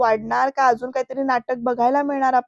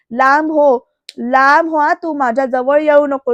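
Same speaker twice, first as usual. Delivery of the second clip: loud command to stay away; angry rejection; 5 dB louder than usual. Retold or imitated. Bayo loudly ordering Surya to keep away. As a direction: push him off with your voice.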